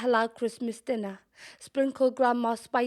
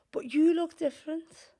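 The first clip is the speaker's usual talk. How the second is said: put-on boy's remark; 7 semitones higher than usual. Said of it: "He looks down at his hands".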